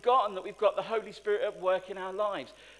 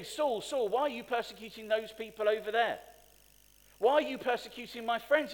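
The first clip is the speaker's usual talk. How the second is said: wrong version of the voice; 4 semitones higher, 3 dB louder than usual. Retold or imitated. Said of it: "It didn't say".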